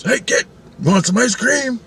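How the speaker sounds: put-on high-pitched hawker calling to a kid; acted-out high salesman voice; ice cream man. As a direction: pitch it up like a vendor's offer. Acts out helicopter ice cream man.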